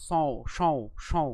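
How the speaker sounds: সং with the nasal ং sounded through the nose. Shown as a demonstration. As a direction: say সং, resonating ং in the nose. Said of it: "তাহলে এর উচ্চারণ কেমন?". (সং উচ্চারণে নাকে ং)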